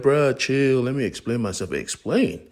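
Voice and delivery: two soldiers arguing loudly; heated yelling. Acted. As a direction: shout each other down. Heated argument, Clutch and Risk.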